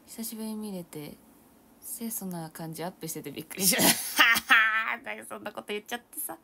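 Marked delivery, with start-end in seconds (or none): 3.9-5.0 loud embarrassed laugh; burst of laughter. Real, not acted. Laughing loudly at a viewer's compliment. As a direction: laugh it off, caught off guard.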